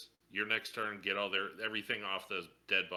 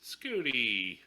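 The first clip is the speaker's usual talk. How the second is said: mock wail; 2 semitones higher than usual. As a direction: wail for your lost ride. Player mourns his destroyed scooter.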